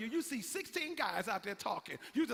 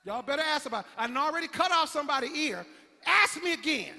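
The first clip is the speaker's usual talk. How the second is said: loud, high threat; a hothead daring the crowd; threatening Peter; 5 semitones higher, 10 dB louder than usual. Acted. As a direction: dare them, voice raised.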